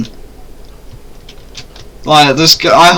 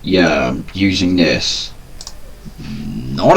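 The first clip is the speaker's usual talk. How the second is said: low robotic voice changer; deep pitch shifted; 4 semitones lower, slower than usual. Real, not acted. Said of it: "I'm using a voice changer".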